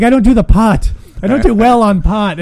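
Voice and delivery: mock panicked, high and loud; imitating freaked-out lady. Party guest panicking after eating a weed cookie, mock frantic. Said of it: "she just starts freaking out".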